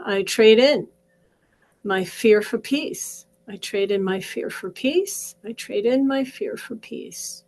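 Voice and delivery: steady, rhythmic repeated affirmation; guided affirmation. Acted. Coach leading viewers through tapping, calm chant.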